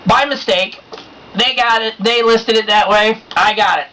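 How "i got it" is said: triumphant shout, I got it; gleeful shout. Real, not acted. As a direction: crow it out with glee. Gloating over cheap price.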